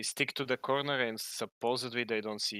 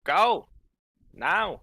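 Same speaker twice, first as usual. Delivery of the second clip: high, loud one-word dragon warnings; 8 semitones higher, 12 dB louder than usual. Acted. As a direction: shout broken warnings like a clumsy dragon. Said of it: "represent the dragon's voice".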